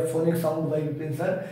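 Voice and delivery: slowly dictating a search phrase; slow dictation. Shown as a demonstration. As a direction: say phonic sound by Vipin sir slowly and clearly. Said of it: "आप search भी कर सकते हैं". (धीरे-धीरे बोलकर लिखवाना)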